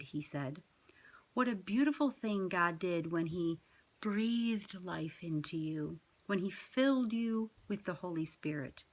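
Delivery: measured, reflective poem read. Acted. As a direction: read it like your own poem, savouring the lines. Reads her own poem.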